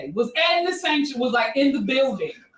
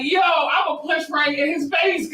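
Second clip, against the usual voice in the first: mock threat; 3 semitones higher than usual. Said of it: "I was like".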